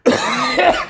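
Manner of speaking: very high strained yell; shouted meme quote. Pretend. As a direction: belt it out as a meme.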